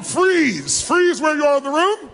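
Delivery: a speaker shouting over a busy hall to freeze; calling out to the room. Real, not acted. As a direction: stop the whole crowd with your voice. Speaker halting a crowded room.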